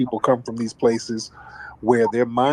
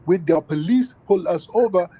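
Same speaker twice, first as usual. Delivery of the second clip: mocking voice; 8 semitones higher than usual. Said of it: "The tethers love running up to us talking about".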